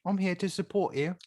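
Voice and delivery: high-pitched hammed-up English accent; mock English accent. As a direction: play a fan in a high put-on English accent. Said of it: "Cockney accent".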